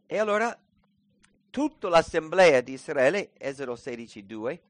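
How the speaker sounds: normal talking voice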